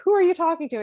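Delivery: mock jealous husband, high and loud; suspicious Count. Count questions his wife through the door, suspicious and loud.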